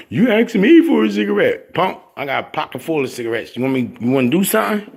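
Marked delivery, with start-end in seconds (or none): 0.1-3.5 mock threat. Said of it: "Talking about".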